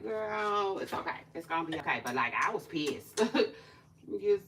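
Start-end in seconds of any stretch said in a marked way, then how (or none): 0.0-2.0 softer, soothing retold comfort; soft reassurance. Imitating her boyfriend calming her, soft. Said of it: "calming me down".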